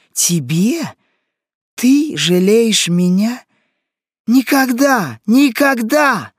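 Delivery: loud, high, outraged cries; enraged shout. A narrator's reading. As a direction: hurl it back in furious disbelief. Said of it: "закричала Тизон, и глаза у неё налились кровью". (яростный крик)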